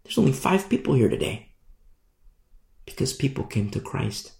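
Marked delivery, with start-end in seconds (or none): 0.0-1.5 dismayed leaders. Acted. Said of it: "religious leaders say".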